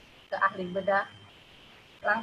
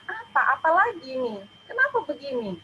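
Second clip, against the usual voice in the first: high, loud, distressed disbelief; panicked questions; 7 semitones higher, 5 dB louder than usual. Retold or imitated. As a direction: cry out in shock at the news. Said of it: "Pokoknya saya tanya". (bertanya panik dengan suara tinggi dan keras)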